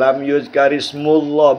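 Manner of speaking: "ismullah" with a u before the l; slow model reading, "ismullah" with -mul-; correct reading. Shown as a demonstration. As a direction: say "ismullah" slowly, with a clear u. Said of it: "bukan mallah. Beda".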